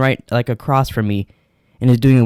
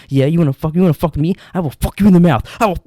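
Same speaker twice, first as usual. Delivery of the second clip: retold yelling; 4 semitones higher, faster than usual.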